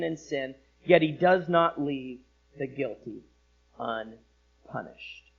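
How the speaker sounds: preacher reading scripture aloud; solemn recitation. Acted. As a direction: proclaim the passage, then let it fall. Reciting the key passage.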